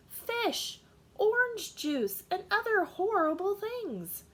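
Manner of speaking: mother growing appalled at each food; building disgust. Acted. Mother lists disgusting foods.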